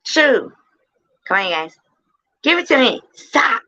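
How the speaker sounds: high, pleading hype calls. Acted. Streamer begging silent chat to sing along, high. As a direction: beg the crowd to join in.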